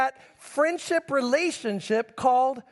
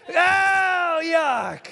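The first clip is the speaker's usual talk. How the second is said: mock disgust through a laugh; hammed-up yuck with a laugh; 4 semitones higher than usual. Pastor voicing his disgust, laughing.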